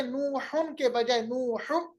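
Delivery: नूहुन then नूह, dropping the final nun sound; slow contrast. Shown as a demonstration. Teacher showing how नूहुन becomes नूह. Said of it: "तो क्या करेंगे".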